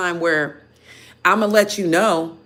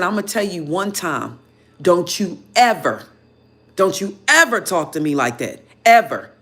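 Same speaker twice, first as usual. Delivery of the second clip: stern warning. Retold or imitated. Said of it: "I blew the hell off".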